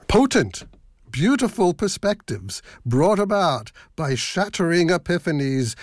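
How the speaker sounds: tongue-in-cheek pompous promo; self-mocking profundity. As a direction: read it with mock profundity. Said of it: "sort of self-mocking profundity".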